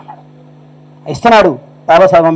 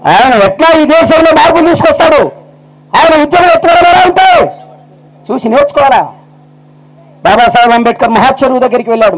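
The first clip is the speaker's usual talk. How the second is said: high, ringing orator's list of titles; fiery preaching; 7 semitones higher than usual. Acted. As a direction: preach it to the crowd at full force. Orator rousing crowd. (సభలో ఉద్రేకంగా ప్రసంగించడం)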